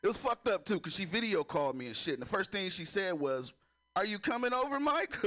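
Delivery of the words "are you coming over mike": high, sing-song mom calling; lightly voiced mom asking; mom's call. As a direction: call him like his mother would. Mom calling him on video.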